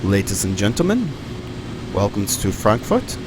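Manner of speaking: lightly put-on German accent; terrible German accent. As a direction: greet passengers in a bad mock German accent. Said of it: "that's my terrible German accent there".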